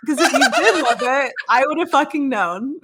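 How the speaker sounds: indignant comeback cracking up into laughs; laughing retort. Retold or imitated. Recounting a comeback to a bad sext, laughing.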